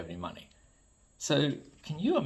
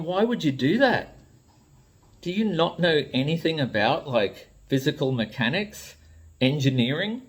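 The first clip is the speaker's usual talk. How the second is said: higher, incredulous voice of a baffled toy designer; exasperated designer; 4 semitones higher than usual. Retold or imitated. Hasbro designer despairing at reviewers, exasperated. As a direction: play a designer who can't believe it.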